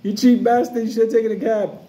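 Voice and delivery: mock shouting after a bus; retold yell at the bus. Kids chasing the bus yelling at Wilfredo, mock jeering shout. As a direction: jeer at him like a kid chasing a bus. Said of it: "We were screaming".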